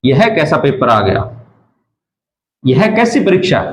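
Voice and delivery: a touch of exam despair; dismayed sigh. Retold or imitated. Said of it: "मुंह से एक शब्द निकलता". (परीक्षा के पेपर पर हल्की निराशा)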